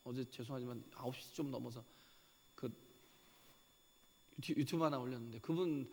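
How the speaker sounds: ordinary talk, nothing marked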